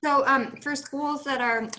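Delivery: talking through a mouthful; words around a bite of food; mouth full. Real, not acted. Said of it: "I'm talking with my mouth full".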